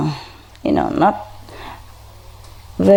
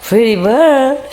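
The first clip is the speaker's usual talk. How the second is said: higher, slow squawky parrot imitation; 8 semitones higher, 3 dB louder, slower than usual. Owner imitating how her parrot greets her, high and slow. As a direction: mimic the bird saying it. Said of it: "he told me".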